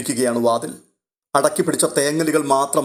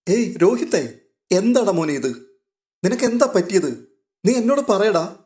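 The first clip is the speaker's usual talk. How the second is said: high-pitched, concerned coaxing; anxious sister's pleading questions; worried urging; 6 semitones higher than usual. Acted. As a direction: urge him to speak, voice lifted in concern. Sister alarmed at brother's sobbing.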